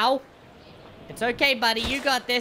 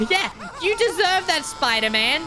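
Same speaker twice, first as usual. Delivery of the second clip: normal talking voice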